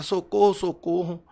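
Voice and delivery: a loud first shout that fades on the repeat; retold cry for help. Father recalling pleading to the neighbors, retold shout. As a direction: re-enact calling out for help, easing off. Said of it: "gritar, gritar".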